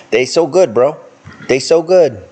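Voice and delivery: talking through a bite of cookie; words round a chewed cookie; mouth full. Real, not acted. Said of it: "eating vanilla wafer cookies".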